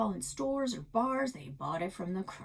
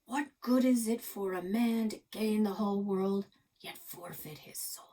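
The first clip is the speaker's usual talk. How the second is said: quoting mother. Retold or imitated. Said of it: "my mother always said".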